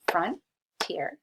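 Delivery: "frontier" clearly in two syllables with a rise; syllable demo. Shown as a demonstration. Teacher shows students the two syllables, rising. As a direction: model "frontier" in two beats, end rising. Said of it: "two syllables in that one".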